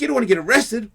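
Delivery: insistent warning. Retold or imitated. Helper warns drunk of arrest, insistent warning. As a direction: spell out the danger to a drunk.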